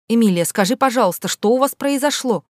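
sugary, coaxing question pitched high; coaxing teacher; ingratiating. Acted. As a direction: wheedle the secret out of her. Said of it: "вкратчиво спросила она".

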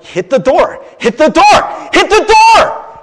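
acted goading, escalating into a yell; urging inner voice. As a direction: chant building to a high shout. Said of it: "this voice inside my head".

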